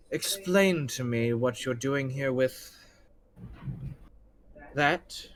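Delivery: lightly acted, measured villain speech; a hint of unhurried, polite threat; refined general, coolly menacing. Game master voices the refined character.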